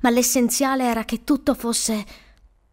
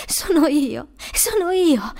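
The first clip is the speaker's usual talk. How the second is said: tearful relief; 6 semitones higher, slower than usual. A narrator's reading. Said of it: "con gli occhi pieni di lacrime".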